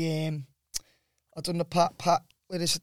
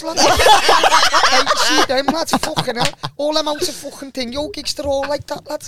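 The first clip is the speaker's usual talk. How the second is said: much higher and louder, laughing outburst; excited laughing rant; 9 semitones higher, 9 dB louder than usual. Real, not acted. Comic ranting to the lads about rough gig crowds, high, loud and laughing. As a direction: burst out cackling at the crowds.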